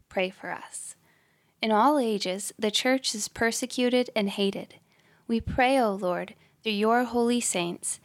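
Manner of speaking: measured, solemn prayer voice; prayer recitation. Acted. Leading listeners in the novena prayers for today, measured prayer.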